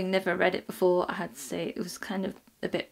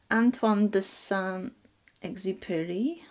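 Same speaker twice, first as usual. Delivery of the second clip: slow, careful French accent; slower than usual. Shown as a demonstration. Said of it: "Terrible French accent".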